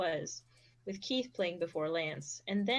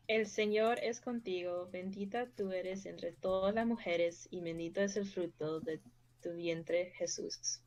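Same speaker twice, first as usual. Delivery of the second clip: prayer recitation. Acted. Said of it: "reciting a Hail Mary".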